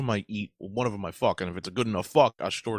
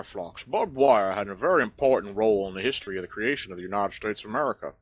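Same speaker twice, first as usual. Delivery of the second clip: fast cartoon southern lecture; Foghorn Leghorn; 4 semitones lower than usual. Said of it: "thank you, Foghorn Leghorn".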